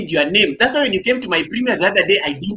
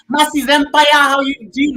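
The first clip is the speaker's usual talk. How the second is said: big, high hype call-out; loud greeting; 8 semitones higher, 6 dB louder than usual. Real, not acted. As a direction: announce her like an MC. Greeting member loudly.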